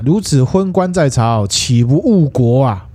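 mock-indignant rebuke, drawn out slowly; acted scolding. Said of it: "他就骂卢杞说啊". (拖长声调地斥骂)

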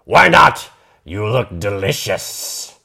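greedy troll asking why not. Acted. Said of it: "The troll frowned".

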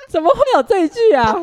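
shocked exclamation. Real, not acted. Shocked at partner's blunt remark.

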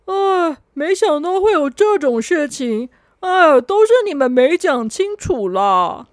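lightly voiced whiny excuse, slow at the end; blaming helper. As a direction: push the blame onto the others. 红不让 blames them.

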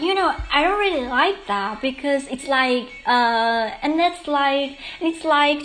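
chain it with drawn-out likes; like-filled Hollywood talk. Shown as a demonstration. Host mimicking trendy like-heavy English, imitating filler talk. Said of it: "我可能就会说".

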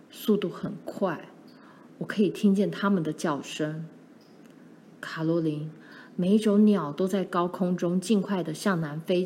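a hint of a father's voice, slightly low and puzzled; measured, lightly acted dad; lightly voiced puzzled father. Father telling Caroline about the strangely empty marsh, mildly puzzled.

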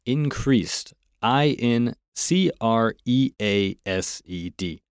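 Increased said, then spelled slowly as I N C R E A S E D. Shown as a demonstration. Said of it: "请单管帮我们拼一下这个increased".

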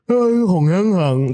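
slow, lightly slurred patient's voice; imitating slurred speech. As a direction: stretch the words out thick and loose. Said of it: "他咬字是这样，". (慢速、轻度模仿病人含糊的咬字)

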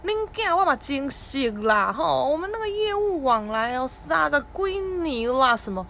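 dad schmoozing in Taiwanese. Retold or imitated. Dad bragging to the bank clerk, slow chummy boast. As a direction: lay on the buddy talk like an old regular. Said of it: "我就先跟他攀关系啊".

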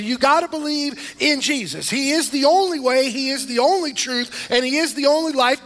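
high, loud, rising preacher's fervor; fiery preaching. Acted. Pastor rousing his church, preaching at full force.

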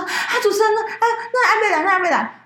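put-on worried old relatives asking after the host; anxious elders. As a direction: voice the elders fretting over the missing host. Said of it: "他们就说".

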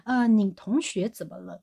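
understated slow professor voice, with a laugh; a hint of the puzzled professor. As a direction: mimic the professor lightly, slow and hushed. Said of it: "他就说".

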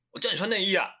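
high, loud angry shout of a father; angry dad shout. Retold or imitated. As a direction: bellow it like a furious dad slamming the table. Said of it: "就很生气，就说". (模仿爸爸生气大吼)

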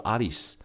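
Alice said the Japanese way, as Arisu; Japanese pronunciation. Shown as a demonstration. Host explains how the hero's name Arisu sounds, Japanese pronunciation. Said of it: "有栖的发音叫做".

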